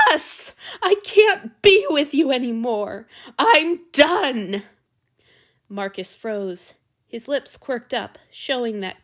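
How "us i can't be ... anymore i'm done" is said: angry. Acted. Ending the relationship.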